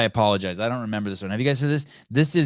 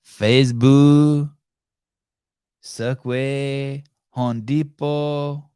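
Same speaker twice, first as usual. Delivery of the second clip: slow, high-pitched Hispanic-accented mimicry; drawn-out Hispanic accent, final consonants dropped; mock Hispanic accent; 4 semitones higher, 8 dB louder, much slower than usual. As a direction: savor each name in a Hispanic accent.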